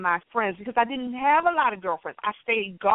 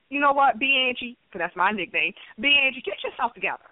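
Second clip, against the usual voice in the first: blunt and dry. Retold or imitated. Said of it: "it'll be that blunt, that dry, and that short".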